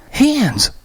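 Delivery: very high, exasperated shout; panicked frustrated scream. Acted. Christy nearly screaming at confused Graham, frustrated. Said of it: "nearly screamed in panicked frustration".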